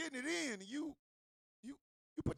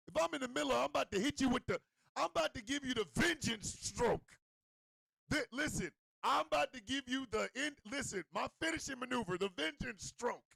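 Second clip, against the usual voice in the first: louder, hyped-up boast; hyped-up announcement; 3 semitones higher, 3 dB louder than usual. Acted. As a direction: announce your finishing move with bravado. Acts out announcing his finishing move.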